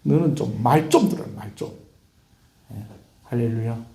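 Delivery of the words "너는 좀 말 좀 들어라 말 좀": exasperated Gyeongsang scolding, dropping at the end; Gyeongsang dialect. Shown as a demonstration. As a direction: punch it in Gyeongsang dialect, then drop away. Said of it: "경상도 말로 번역하면".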